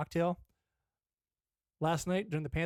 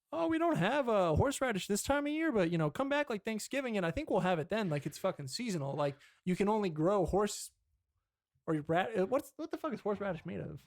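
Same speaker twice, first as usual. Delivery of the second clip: store clerk; 5 semitones higher than usual. Retold or imitated. Store clerk voiced in story.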